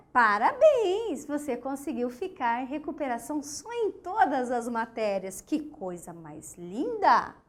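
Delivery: mock praise with slow drawn-out words; a sarcastic mum pretending to be proud; ironic mother. Shown as a demonstration. Mother to failing son, mock-proud sarcastic praise. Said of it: "Só que não, né, gente".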